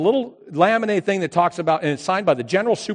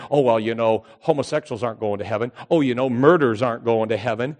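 mock judgmental churchgoer; 5 semitones lower than usual. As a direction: lower mocking self-righteous voice. Mocking judgmental church people.

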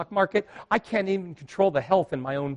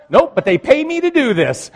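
laughing reply; 9 semitones higher, 8 dB louder than usual. Retold or imitated. Joking reply to passengers.

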